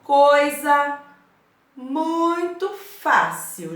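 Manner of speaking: teacher coaxing the class; drawn-out reassurance. Real, not acted.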